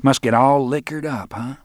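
lightly mocking gossip's wonder; wondering onlookers. Roland imitates gawking people below, mock wondering voice. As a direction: marvel in mock innocence. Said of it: "People gonna say".

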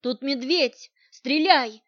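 urgent shouted warning to a companion. Acted. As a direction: call out to her to shoot before the bear moves. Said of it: "предупредил".

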